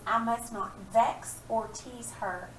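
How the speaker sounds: slow read-aloud, vex leaned on; reading the poem line slowly. Shown as a demonstration. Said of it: "it says".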